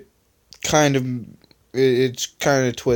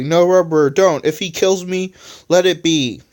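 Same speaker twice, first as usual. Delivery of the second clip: mild crazed yell; 5 semitones higher, 4 dB louder than usual. Acted. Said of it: "yelled Electronic crazily".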